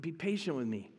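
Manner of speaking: soft, understated plea; lightly acted, hushed begging; retold begging. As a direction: plead quietly, as if quoting the debtor. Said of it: "he begged".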